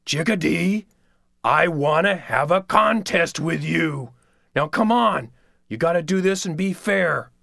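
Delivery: sly pushy trickster; Coyote voice. Acted. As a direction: coax like a wheedling coyote.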